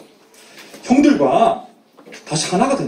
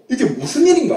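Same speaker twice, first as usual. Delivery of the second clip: acted startled question, pitched higher; 6 semitones higher, faster than usual. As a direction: ask it in mock astonishment. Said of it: "깜짝 놀라서". (깜짝 놀란 듯 높은 목소리로)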